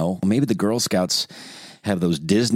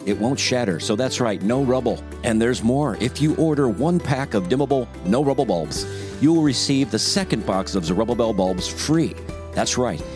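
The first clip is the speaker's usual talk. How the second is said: upbeat radio ad voice; ad read. Shown as a demonstration. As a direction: sell it like a commercial announcer. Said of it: "I'm just gonna do a dry read here".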